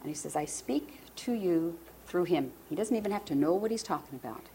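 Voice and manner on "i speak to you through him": slow, soft, weighted words; emotional, hushed. Retold or imitated. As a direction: say it slowly and softly, moved. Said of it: "I'm sorry I'm so emotional today".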